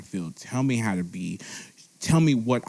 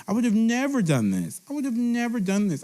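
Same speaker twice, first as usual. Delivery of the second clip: higher, emphatic disbelief; 11 semitones higher, faster than usual. Real, not acted. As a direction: really stress how unthinkable. Emphatic repetition about young self.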